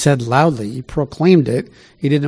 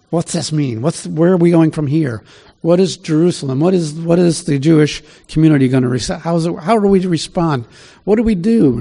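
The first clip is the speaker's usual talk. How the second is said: flustered crowd; 3 semitones higher than usual. Retold or imitated. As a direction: imitate people puzzling anxiously over what comes next. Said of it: "there's a lot of chaos going on".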